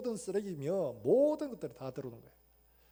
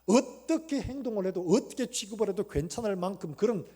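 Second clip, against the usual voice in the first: Job's lament; 4 semitones higher, 7 dB louder than usual. Retold or imitated. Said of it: "이런 거예요, 지금".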